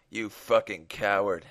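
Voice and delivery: slow, mildly disgusted. Acted. Gunman standing over the beaten father, slow mild disgust. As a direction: draw it out with a touch of contempt. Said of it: "he said with disgust".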